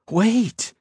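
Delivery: high, urgent plea; pleading. A narrator's reading. Ethan tries to stop his fiancée leaving, pleading. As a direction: call out pleadingly. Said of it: "Ethan pleaded".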